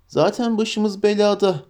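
a touch of weary gloom; grim Frodo. Acted.

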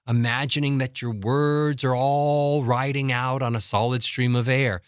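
sustained, joined-up words on one breath; solid stream. Shown as a demonstration. Coach recalling color breathing, solid stream. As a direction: let the vowels ride out unbroken. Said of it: "what I called color breathing".

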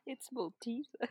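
talking through a mouthful; chewing while talking. Real, not acted. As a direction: speak while chomping chocolate. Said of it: "Can you guys hear me chomping?".

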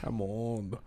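low, soft, understated delivery; respuesta modesta. Shown as a demonstration. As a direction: drop it low and quiet, underselling it. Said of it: "pregúntame qué tan bueno soy". (respuesta modesta, grave y bajita)

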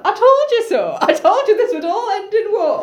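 high, exasperated mock complaint; I-told-you-so. Oedipus after Creon threatens war, high I-told-you-so.

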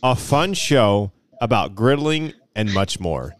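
slow, deliberate read with pauses; measured, drawn-out quote reading; reading a quote aloud. Acted. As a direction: read out the review, lingering on each phrase. Reads a listener's review aloud.

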